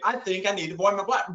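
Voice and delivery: fast repeat. Shown as a demonstration. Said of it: "She made a believer out of me real quick".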